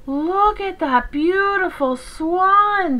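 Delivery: high, slow, drawn-out duck voices; quacking ducklings. A narrator's reading. Young ducks admiring the swan, quacking. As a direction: stretch each word in admiring young duck voice. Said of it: "they quacked".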